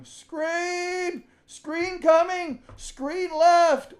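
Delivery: high, loud defensive shout; drawn-out on-court yell; screaming screen call. Shown as a demonstration. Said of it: "screaming at him".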